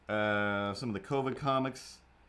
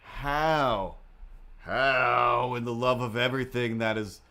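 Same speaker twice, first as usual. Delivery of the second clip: astonished at cat. Real, not acted. Finding hidden cat in drawers.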